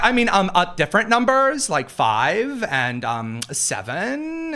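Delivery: hesitant, high then dragging; mimicking her. Host mimicking a woman fumbling for numbers, hesitant mock voice. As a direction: stumble through it with drawn-out words. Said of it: "And she's like".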